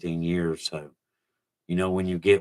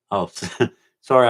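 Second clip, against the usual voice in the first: laughing; 6 dB louder than usual. Real, not acted. Laughs mid-line.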